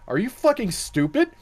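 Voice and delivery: high-pitched mock disbelief. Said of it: "was like".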